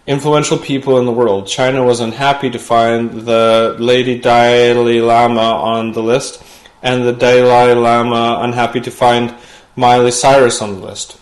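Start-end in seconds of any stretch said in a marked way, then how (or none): 2.6-11.2 a light, mock Tibetan accent on the line; lightly voiced Dalai Lama accent, half-hearted; Dalai Lama impression. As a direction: put on a hint of the Dalai Lama's accent, playing it for laughs. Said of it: "That was an impression of the Dalai Lama".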